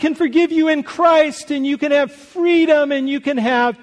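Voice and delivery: high, loud preacher's climax, pushing each phrase; fervent preaching. Real, not acted. Preacher to congregation, loud fervent proclamation. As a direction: proclaim it like a revival preacher at full force.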